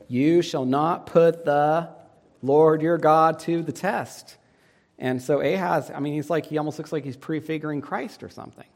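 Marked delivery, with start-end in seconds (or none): 0.1-4.4 slow, louder firm declaration; solemn rebuke. Acted. Jesus answering the devil, slow and firm. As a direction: state it with weight like scripture.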